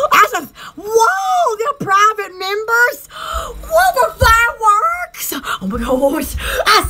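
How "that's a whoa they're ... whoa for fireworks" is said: amazed whoa. Real, not acted. Amazed at fireworks sponsors.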